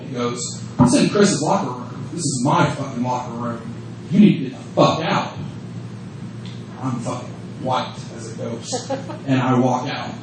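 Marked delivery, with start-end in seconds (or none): 0.8-5.4 low, restrained menace, retold; stone cold. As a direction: imitate a cold, quiet dressing-down. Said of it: "stone cold".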